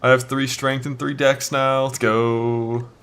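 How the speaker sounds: ecstatic loud yelling; shrieking jackpot winner. Real, not acted. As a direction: scream it like you hit the jackpot. Finds a great jewel drop.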